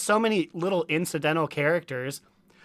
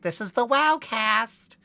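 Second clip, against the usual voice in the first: announcer voice; 6 semitones higher, slower than usual. Retold or imitated. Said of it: "they're just like".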